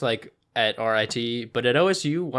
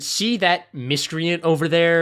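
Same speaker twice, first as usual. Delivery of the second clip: grandma voice; 5 semitones higher, 5 dB louder than usual. Retold or imitated. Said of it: "She'd be like".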